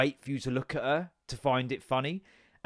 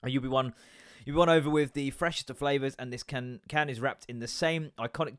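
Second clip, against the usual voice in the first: ad read. Shown as a demonstration. Reads ad copy off can.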